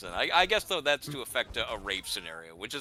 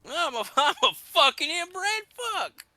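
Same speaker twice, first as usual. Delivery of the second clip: much higher, louder twangy Midwest voice; hick Midwest accent; 5 dB louder than usual. Pretend. Host riffing as the lamp neighbor, thick Midwest accent. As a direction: ham up a dim rural neighbor.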